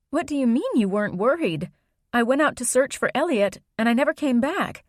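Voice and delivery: alarmed. Acted. Girl confronting grandma, alarmed.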